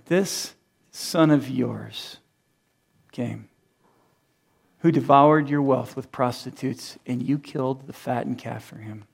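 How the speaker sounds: very slow, quiet, cold sneer; scornful contempt. Retold or imitated. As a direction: spit out "this son of yours" slowly. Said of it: "in this contempt and in this scorn".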